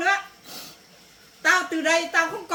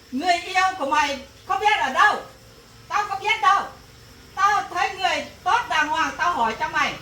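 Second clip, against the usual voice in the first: raised, fast scolding tirade; mother's heated rant at her daughter; angry scolding; 3 semitones higher, 3 dB louder than usual. Acted. Mother scolding daughter over marriage.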